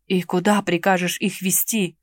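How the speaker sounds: usual speaking voice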